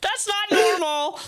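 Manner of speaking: loud, high cry of disbelief; appalled outburst. Real, not acted. Host reacting to a creepy phone background, appalled outburst. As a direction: burst out, high and drawn-out, in real shock.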